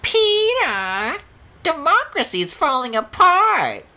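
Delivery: loud, high put-on sitcom-wife nag; cartoon wife voice. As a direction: whine it like a fed-up sitcom wife. Cartoon wife voice after Peter.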